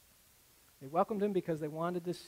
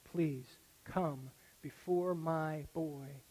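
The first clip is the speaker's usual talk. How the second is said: desperate plea; 3 semitones lower, 4 dB quieter, much slower than usual. Retold or imitated. Father's final plea retold.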